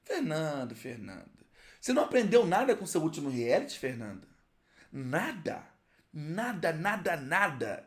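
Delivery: low, soft, let-down reproach; mock scolding. (bronca fingida, baixa e decepcionada)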